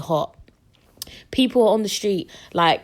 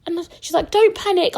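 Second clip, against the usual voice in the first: high, bright-sing-song midwife voice; mock cheery midwife, higher and louder; imitating the midwife; 12 semitones higher, 5 dB louder than usual. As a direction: put on a chirpy high midwife voice. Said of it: "the midwife going like".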